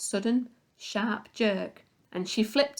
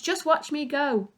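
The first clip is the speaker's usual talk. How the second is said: put-on lightly higher, crowing old woman; show-off granny; boastful old hag; 6 semitones higher than usual. A narrator's reading. Grandma boasting.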